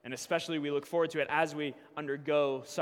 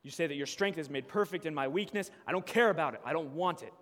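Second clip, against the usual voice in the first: rising, louder and higher complaint to God; angry prayer; 5 semitones higher, 7 dB louder than usual. Acted. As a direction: vent at God, building to near shouting. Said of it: "We often want to say".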